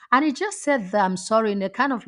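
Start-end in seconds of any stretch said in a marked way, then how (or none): 1.0-1.5 tossed off like it's nothing; a careless, offhand apology; flippant. Retold or imitated. Manager brushing off the customer, flippant and offhand. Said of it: "like, very flippant way".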